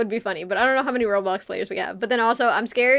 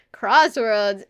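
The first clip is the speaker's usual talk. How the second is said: excited; 5 dB louder than usual. Real, not acted. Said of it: "I don't know why I said it that way, but I got excited".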